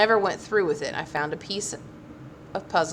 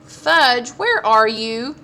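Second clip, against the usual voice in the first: urgent call; 5 semitones higher, 8 dB louder, much slower than usual. A narrator's reading. Frantic brother on phone.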